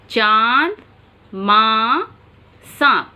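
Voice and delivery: carefully nasalize चांद, माँ, सांप; nasalized vowel demo. Shown as a demonstration. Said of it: "उदाहरण देखिए".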